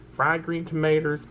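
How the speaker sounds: Southern twang, tomatoes ending in "-ters"; Southern accent. Pretend. Listing a sandwich for viewers, hammed-up Southern accent. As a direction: say "tomatoes" the down-home Southern way, as "tuh-may-ters". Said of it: "that's probably my real accent".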